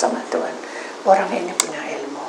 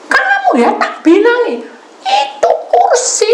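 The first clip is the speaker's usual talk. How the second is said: high, loud shouted threat; angry caller; 7 dB louder than usual. Retold or imitated. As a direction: bellow at her as the caller. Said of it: "Telepon orang tadi tuh marah-marah". (meniru orang membentak marah)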